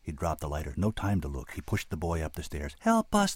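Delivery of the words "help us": much higher, louder desperate call. A narrator's reading. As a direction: prisoners crying up the stairs. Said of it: "they called".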